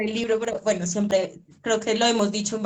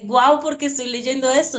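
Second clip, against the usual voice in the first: amazed wonder; 3 semitones higher than usual. Retold or imitated. Reader telling the author her real reaction: amazed guau. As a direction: marvel at it, leaning on guau. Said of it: "sino de".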